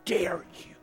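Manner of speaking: slow, broken whisper to God; whispering through tears, slowly; tearful whisper. Retold or imitated. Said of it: "with steaming tears rolling down his eyes".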